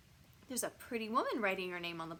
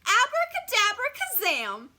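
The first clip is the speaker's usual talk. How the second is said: high, loud magic incantation; big theatrical spell; casting a spell; 13 semitones higher, 12 dB louder than usual. A narrator's reading. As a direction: hurl out the magic words. Monster teacher casts a spell.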